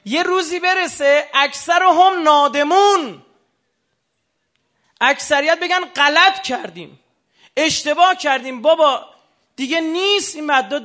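high, loud wail of regret, drawn out slowly; regretful masses. Acted. Preacher voicing a crowd's future regret, wailing loudly. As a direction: cry out as the remorseful crowd.

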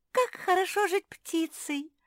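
высоко и звонко от радости; обрадуйся, как птичка на ветке; радостно. A narrator's reading. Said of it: "обрадовалась Ляля". (высокий радостный возглас)

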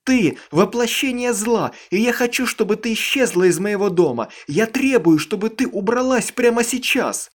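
high, loud furious demand; furious demand to leave; hateful shouting. A narrator's reading. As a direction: order her out in rage.

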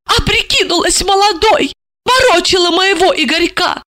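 put-on high, light voice of an eager young woman; young woman's voice. A narrator's reading. Young woman asking her handler, high and eager. Heroine's jealous thoughts.

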